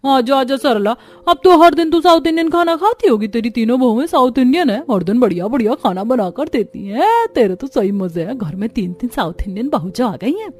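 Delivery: sing-song taunting neighbour; mock-friendly needling. Neighbour provoking the angry mother-in-law, teasing. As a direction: needle her with false cheer.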